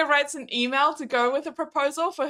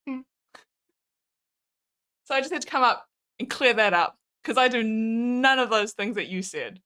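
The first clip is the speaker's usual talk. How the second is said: sarcastic; 2 semitones lower than usual. Real, not acted. Mock apology to partner.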